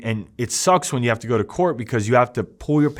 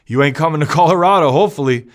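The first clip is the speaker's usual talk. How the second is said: mocking taunt; 4 semitones higher, 5 dB louder, faster than usual. Taunting gang members after laughing.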